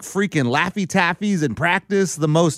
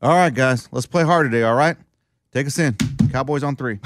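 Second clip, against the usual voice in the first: flat pep talk; 4 semitones lower than usual. Retold or imitated. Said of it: "here's his big game time speech".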